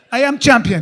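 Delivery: put-on loud, laughing Middle Eastern accent boast; bragging accent. Quoting his friend Tawfiq, he booms a Middle Eastern accent boast. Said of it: "He used to say".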